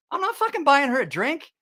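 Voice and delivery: mock panicked buddy; laughing as he quotes his buddy; retold friend. Friend's urgent whispered refusal retold.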